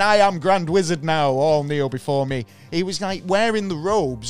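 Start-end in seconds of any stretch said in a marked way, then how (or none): 0.0-2.4 grandiose proclaiming voice, louder; dark lord. Retold or imitated. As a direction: boom it out like a self-made wizard king. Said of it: "his magical golden circles going".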